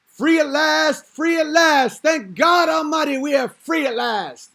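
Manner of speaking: shouting high preacher climax; booming MLK impression. Comic dropping the MLK speech climax, loud and soaring. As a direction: thunder it out like a civil-rights orator.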